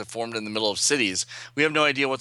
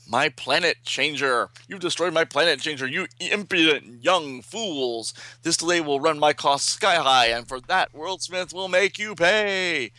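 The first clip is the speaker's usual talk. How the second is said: outraged villain; 5 semitones higher than usual. Acted. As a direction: rage at the meddlers, stretching the final vow.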